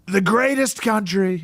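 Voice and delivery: slow, throaty Trump rally voice; Trump impression. Shown as a demonstration. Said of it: "the easiest way to do Trump is".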